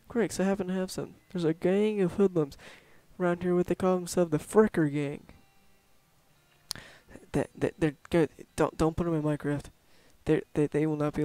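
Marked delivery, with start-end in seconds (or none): 0.1-5.2 lightly voiced cowboy lawman; a touch of old-West sheriff explaining a job; folksy western sheriff.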